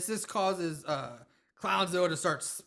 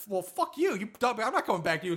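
mock angry; 5 semitones higher, faster than usual. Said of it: "Mike's left like".

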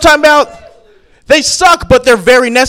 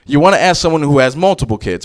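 ordinary talk, nothing marked

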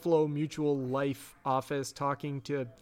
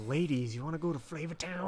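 mock TV host; 4 dB quieter, faster than usual. Guy Fieri host impression.

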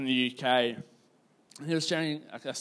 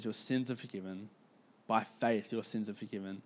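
low, soft and tender; tender forgiveness; 3 semitones lower, 6 dB quieter than usual. Retold or imitated. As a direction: quietly reassure her, voice lowered. Jesus tenderly forgiving the woman.

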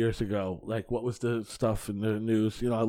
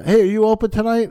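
chirpy booker voice; 8 semitones higher, 8 dB louder than usual. Retold or imitated. Booker calling him on Saturday morning.

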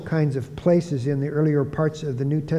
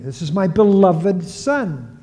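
slow, slightly raised proclamation; voice of God; 4 semitones higher, 4 dB louder, slower than usual. Retold or imitated. Preacher quoting God speaking of his Son, slow proclamation. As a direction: declare it slowly as God. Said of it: "God is speaking".

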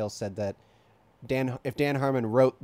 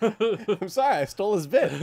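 Justin Keyson bit; 7 semitones higher, 3 dB louder, slower than usual. Retold or imitated. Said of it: "a perfect facial imitation of Justin Keyson".

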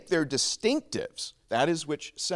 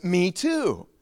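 high, eager agreement; acted thrill at finding common ground; delighted discovery; 4 semitones higher than usual. First man to a fellow Protestant, high delighted agreement.

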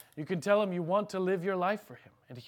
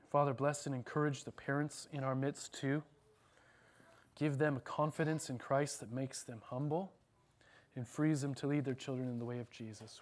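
slightly lowered, even praying voice; closing prayer; 3 semitones lower than usual. Acted. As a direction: pray earnestly for the congregation, measured and subdued.

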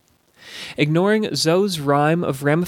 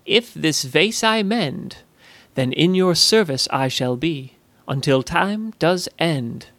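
slow, uneasy recalled rhyme; remembered pledge. Retold or imitated. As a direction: recite the vow slowly, half to herself. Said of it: "She thought back to Zoe's words".

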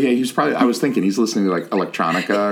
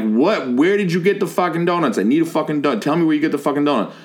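insistent, higher-pitched mock yell; retold yelling; 5 semitones higher than usual. Storyteller hounding a student for donuts, insistent mock yell. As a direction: demand answers in a raised, urgent voice. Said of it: "waving at this kid and yelling".

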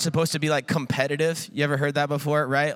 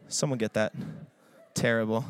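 mock shame; 9 semitones lower, 5 dB quieter than usual. Real, not acted. Self-mocking after singing.

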